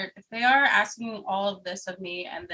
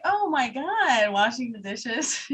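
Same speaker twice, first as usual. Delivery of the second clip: mock shocked; 4 semitones higher, 4 dB louder, slower than usual. Mock gasp over a podcast.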